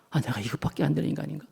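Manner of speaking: despairing self-talk. Acted. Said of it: "막 이런 엄청난".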